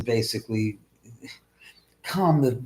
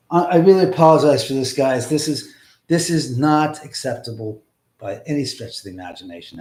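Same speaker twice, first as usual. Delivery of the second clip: loud apology; 7 dB louder than usual. Real, not acted. Apologizing to viewers.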